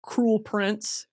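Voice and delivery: ordinary talk, nothing marked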